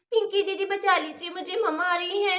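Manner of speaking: soft, urgent plea; hushed pleading. Acted. Child begging sister as mother approaches, hushed pleading. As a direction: beg quietly so nobody else hears.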